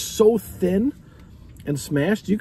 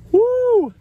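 biting into burger; talking while eating; mouth full; 3 semitones lower, 3 dB quieter than usual. Real, not acted. Seen 1: Holds burger toward camera, then bites it during "Woo! Mm.

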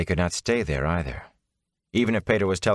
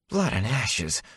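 growled; 4 semitones higher, slower than usual. Acted. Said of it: "Matt growled".

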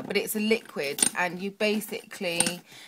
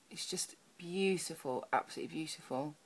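awed whisper; 5 dB quieter than usual. Real, not acted. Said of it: "I'm getting all makeup emotional".

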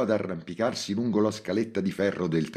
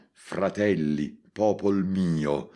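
Alberto da Giussano; 2 semitones higher, much slower than usual. Acted. Montalbano tempted to address the crowd like a hero. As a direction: declaim like a medieval hero rallying the people. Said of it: "come Alberto da Giussano".

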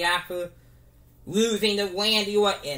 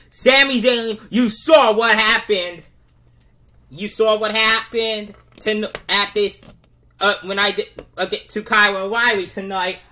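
loud trash-talking call-out; shouted wrestler promo; 5 dB louder than usual. Pretend. Rey calls out Sami Zayn, loud promo shout. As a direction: bellow the challenge at the champ.

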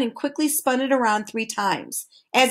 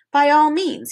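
happily; 5 semitones higher, 4 dB louder, slower than usual. A narrator's reading. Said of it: "he replied happily".

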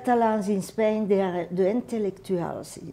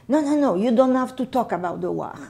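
quick, louder no-no-no of a mother stopping talk; scolding mother; 4 semitones higher, 4 dB louder, faster than usual. Retold or imitated. Mother scolding the child for talking war, quick and firm. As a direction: hurry to shut the subject down.

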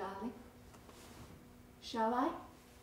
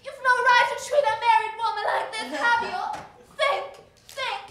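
high, loud frantic pleading; panicked plea; 11 semitones higher, 16 dB louder than usual. Acted. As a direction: cry out in rising panic.

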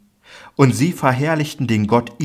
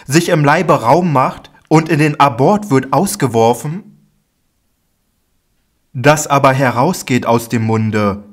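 higher, louder, insistent teacher voice; Jesus rebuking and explaining; 3 semitones higher, 4 dB louder than usual. Acted. Jesus explains the parable to Peter, insistent and raised. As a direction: drive each point home with force.

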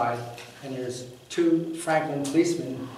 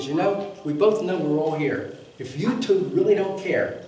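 louder, heated retelling of telling off the cops; retold angry outburst; 7 dB louder than usual. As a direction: push it out louder, indignant and pressing, slowing on the last words. Retells arguing with police officers.

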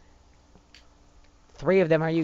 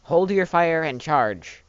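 slow command; 3 dB louder, much slower than usual. Acted. Commanding troops in game.

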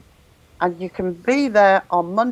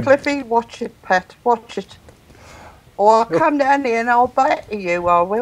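mock scolding; 3 semitones higher than usual. Teasing a listener named Cliffy.

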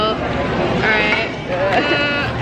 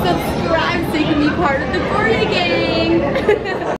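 slow, drawn-out, giggly outro plug; hammed-up sign-off; 4 semitones higher, slower than usual. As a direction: stretch out the plug playfully. Playful sign-off to viewers.

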